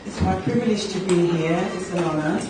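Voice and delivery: hoarse sore throat voice; talking through a sore throat. Real, not acted. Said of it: "I've got a really sore throat".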